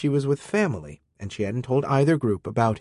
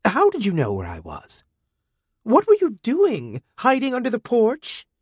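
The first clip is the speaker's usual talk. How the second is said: put-on high, sneering girl's voice; snide teen girl; 12 semitones higher, 3 dB louder than usual. A narrator's reading. Teen girl mocking the robot who followed her, high sneering. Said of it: "She said".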